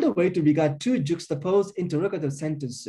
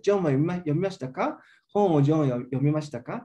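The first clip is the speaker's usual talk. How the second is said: each "ka" lifts up as its own question; two rising questions; much faster than usual. Shown as a demonstration. Lecturer reads two repeated questions, rising on each "ka". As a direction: read both questions with a rise on every "ka". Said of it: "both sentences get rising intonation".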